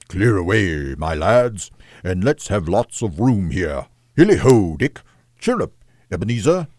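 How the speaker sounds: a cheerful master calling out to his lads; rally the room to clear away; jolly call. Acted. Fezziwig rallying his apprentices, cheerful call.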